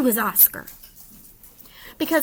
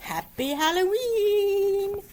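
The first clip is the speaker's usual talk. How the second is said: cheery greeting; 8 semitones higher, slower than usual. Acted. Closing greeting sung out.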